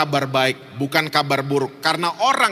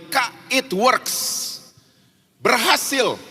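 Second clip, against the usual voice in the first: high, drawn-out exclamation; excited report; 7 semitones higher, much slower than usual. Retold or imitated. Friend telling the preacher it worked, excited. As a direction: announce the breakthrough slowly, on a high pitch.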